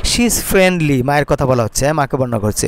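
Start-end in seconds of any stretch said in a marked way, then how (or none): 0.0-1.0 slow dictation. Shown as a demonstration. Teacher dictates model sentence.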